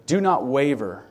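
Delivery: emphatic command. Real, not acted. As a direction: preach it firmly, hitting "not" hard. Preacher repeats exhortation twice.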